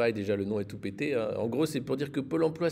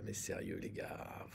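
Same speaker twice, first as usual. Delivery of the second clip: quiet; 11 semitones lower, 13 dB quieter, slower than usual. Real, not acted. Fading disbelief.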